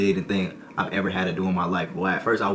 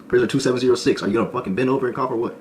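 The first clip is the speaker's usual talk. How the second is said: mock guard, impatient and fast; guard orders; 4 semitones higher, 4 dB louder, faster than usual. Guard repeating the order to the prisoner, impatient. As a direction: bark it like an annoyed guard.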